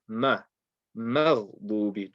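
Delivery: "Ma", then "مغضوب", both with a thin, light m; light Mim. Shown as a demonstration. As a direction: keep "Ma" light and front, then carry it into "مغضوب". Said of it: "Keep it light".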